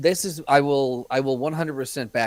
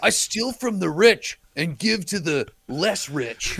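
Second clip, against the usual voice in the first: higher, slow, laughing delivery; mock Robin Hood motto; 5 semitones higher, slower than usual. Co-host mocking the Robin Hood motto, laughing. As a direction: recite the motto as a goofy bro.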